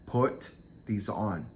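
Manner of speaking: each word drawn out and spaced; measured, unhurried retold command; slow, deliberate order. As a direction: repeat the command slowly and deliberately. Captor repeats his order slowly.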